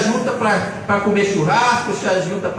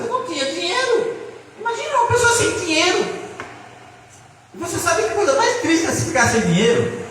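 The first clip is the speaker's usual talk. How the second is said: laughing; 9 semitones higher than usual. Real, not acted. Laughing about having no money.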